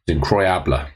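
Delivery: incroyable said the French way, as a film quote; mock French word. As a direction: incroyable with a light French twist, not the English word. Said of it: "which is incredible".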